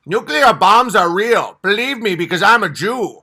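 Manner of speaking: hammed-up genius claiming authority; mock Einstein. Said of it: "I can look like Albert Einstein".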